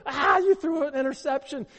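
high, loud exasperated yell at the TV; fan yelling. Retold or imitated. Fan yells at quarterback on TV, high exasperated yell. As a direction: scream at your quarterback like a frustrated fan.

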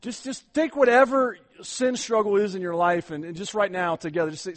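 ordinary delivery

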